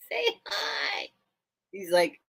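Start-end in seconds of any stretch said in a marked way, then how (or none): 0.1-1.1 high, soft, through laughter; laughing coax. Real, not acted. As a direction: ask through giggles. Laughing at the bird.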